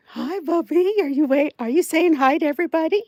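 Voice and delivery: high sing-song pet talk; cooing at the pet. Real, not acted. Talking to pet, baby voice.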